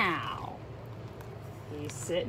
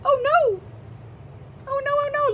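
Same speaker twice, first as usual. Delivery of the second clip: mock alarm; 3 dB louder, faster than usual. Scared mouse in story.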